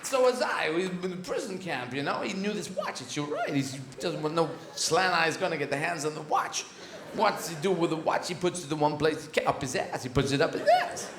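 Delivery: a hint of Walken doing the Pulp Fiction watch speech; halting, oddly stressed Walken storytelling; mild Walken impression, words broken by pauses; lightly voiced Christopher Walken. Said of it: "This is Christopher Walken".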